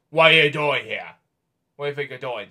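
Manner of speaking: a hint of the apple-throwing tree scolding; grumpy Wizard of Oz tree. Child imitating the grumpy Oz tree, mild scolding. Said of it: "the tree from the Wizard of Oz".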